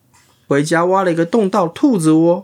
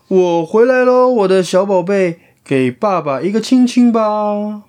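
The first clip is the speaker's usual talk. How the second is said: 开心的鼹鼠爸爸; 5 semitones higher than usual. Acted. 鼹鼠爸爸以为到家.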